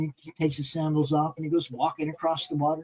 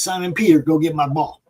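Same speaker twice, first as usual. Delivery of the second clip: raised call toward the pond; louder mock call across the water; 4 dB louder, faster than usual. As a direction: call him to fetch the ball. Jesus calls out across water.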